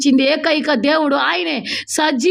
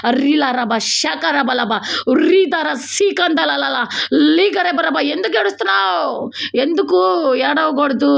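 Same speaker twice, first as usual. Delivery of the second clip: fervent prayer. Real, not acted. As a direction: pray insistently, with bursts of speaking in tongues. Leads fervent prayer after plain greeting.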